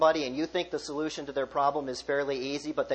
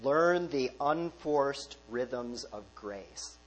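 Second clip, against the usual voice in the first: very slow, each word savoured; savoured slow quote; much slower than usual. Shown as a demonstration. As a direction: linger over every word of the phrase «Learn the unforced rhythms of grace». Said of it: "I like this phrase".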